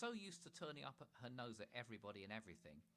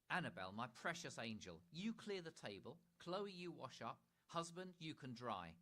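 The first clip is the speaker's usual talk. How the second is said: higher, louder snooty mother handing out chores; bossy Mother; 5 semitones higher, 5 dB louder than usual. Acted. Mother giving the family chores, higher bossy voice. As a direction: dish out tasks like a queen.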